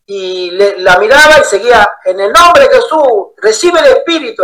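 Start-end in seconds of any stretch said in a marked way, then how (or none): 2.0-4.4 higher ringing preacher cry; preacher's call. Retold or imitated. Pastor blessing each believer, raised preacher cry. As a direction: proclaim it like a faith healer.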